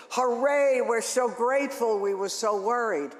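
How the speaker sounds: joyful thankful cheer, then easing down; cheering listeners. Retold or imitated. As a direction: shout hooray like a grateful parent. Voicing grateful listeners' letters.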